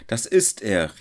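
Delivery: excited shout; crowd calling. A narrator's reading. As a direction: point him out to others. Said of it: "riefen sie".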